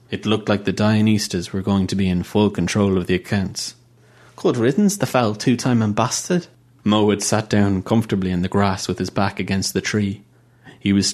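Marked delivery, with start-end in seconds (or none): 4.4-6.5 higher, contemptuous sneer at the dead king; scornful. Acted. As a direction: spit out the insult with disdain.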